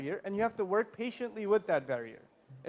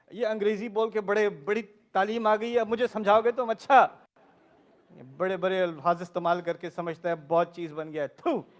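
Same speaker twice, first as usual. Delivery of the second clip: scolding parent; 3 semitones lower than usual. Retold or imitated. Parents scolding child in Urdu.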